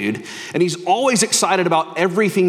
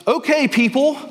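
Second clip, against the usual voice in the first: raised-pitch manager addressing the whole store; store announcement; 3 semitones higher than usual. Acted. Store manager telling staff about Santa, announcement voice. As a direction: announce it to everyone, slowing on the last phrase. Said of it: "the manager makes this announcement to the whole store".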